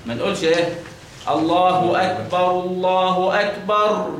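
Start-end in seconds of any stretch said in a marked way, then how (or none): 1.3-4.1 slow الله أكبر with the r of أكبر trilled long; wrong over-trilled r; rolled r. Shown as a demonstration. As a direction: roll the r at the end of أكبر far too much. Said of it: "هذا خطأ".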